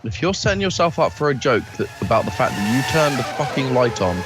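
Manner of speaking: talking while chewing; words round a bite of food; mouth full. Real, not acted. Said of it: "Are you eating again?".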